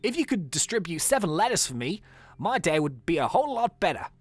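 badly faked Aussie accent; bad Australian accent. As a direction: read it out as a hammy Australian. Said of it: "I'm terrible at Australian".

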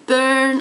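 burn with the vowel rounded like ö; burn as an ö example. Shown as a demonstration. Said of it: "ö as in".

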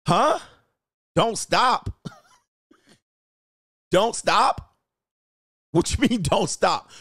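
outraged and confused, half laughing; baffled disbelief. Retold or imitated. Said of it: "You be like".

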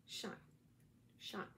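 Shant as "sh" blended straight into "ant"; name pronunciation. Shown as a demonstration. Host showing viewers her name, pronunciation demo of Shant. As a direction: say Shant as one short syllable, twice, spaced apart. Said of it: "That's the way you say it".

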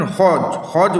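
হজ stopped by the final j; হজ as a closed syllable that cannot be drawn out; unstretchable closed syllable. Shown as a demonstration. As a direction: say হজ twice, closing each on j without holding it. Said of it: "টানতে পারছি না".

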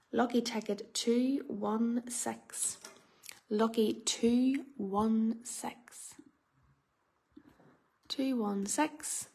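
slow, half-whispered number call; bingo caller. Real, not acted. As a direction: draw the number out in suspense.

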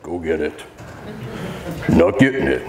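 low, dull dog command; dropped pitch, unenthusiastic handler; unexciting. Shown as a demonstration. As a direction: say it with no excitement at all. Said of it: "I'm not real exciting to him".

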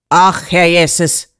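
drawn-out, slow exclamation of dismay; shocked cry. A narrator's reading. Doctor seeing inside the girl's throat, shocked cry. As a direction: cry out, stretching the words. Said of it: "schrie er da".

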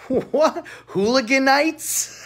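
a startled, delighted double take; surprised. Real, not acted. Reacting to a viewer's comment.

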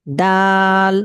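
দাল said clearly as the letter name; name the letter দাল crisply; Arabic letter dal. Shown as a demonstration. Teacher names the letter for students. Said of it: "এই হরফটির নাম হলো".

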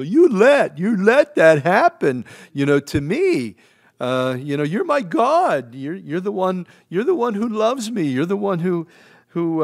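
loud, high, pleading cry; anguished complaint to God. Retold or imitated. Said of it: "Job's at that kind of blue".

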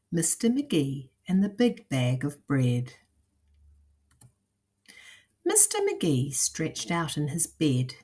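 put-on lively, measured storytelling to young listeners; lilting picture-book narration; children's story reading. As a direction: read it aloud like a picture book.

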